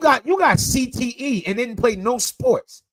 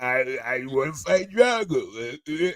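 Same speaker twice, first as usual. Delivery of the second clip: slow, lower Rocky Balboa mumble; Rocky impression; 3 semitones lower, slower than usual. Mocking his co-host's voice as Rocky, low slow mumble. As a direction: mumble it like a punch-drunk boxer. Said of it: "You sound like fucking Rocky".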